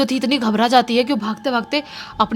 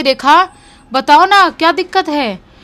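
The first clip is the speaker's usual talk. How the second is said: raised, louder worried calling; anxious pleading; 5 semitones higher, 8 dB louder than usual. Retold or imitated. Landlady begs the silent girl to speak, anxious raised plea. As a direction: urge her to answer, alarmed.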